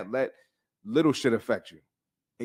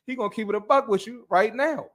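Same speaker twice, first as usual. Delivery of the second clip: much higher mock TV doctor; hammed-up catchphrase impression, pitched way up; Doctor Now; 9 semitones higher, 3 dB louder than usual. Explaining the doctor to his co-host, mock doctor impression. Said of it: "deliver like Doctor Now".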